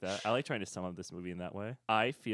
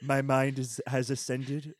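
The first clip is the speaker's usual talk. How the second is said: lightly voiced robot; a hint of a robot drone; 2 semitones higher, slower than usual. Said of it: "I lost the voice".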